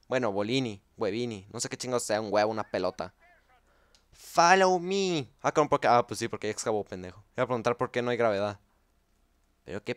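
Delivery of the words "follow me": slow higher game voice; announcer voice. Retold or imitated. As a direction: intone it like the game. Mimics game line. (voz de anunciador lenta)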